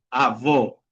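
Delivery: "Avó" with a closed, rounded final o; inward closed vowel. Shown as a demonstration. Teacher repeating the word for grandfather, closed final vowel on "Avó". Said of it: "Significa abuelo".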